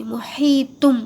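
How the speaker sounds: محیطم with long "hee" and a hummed M; M ending. Shown as a demonstration. Teacher showing learners like this, ending in M. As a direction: finish محیطم on closed lips. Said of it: "اس طرح سے".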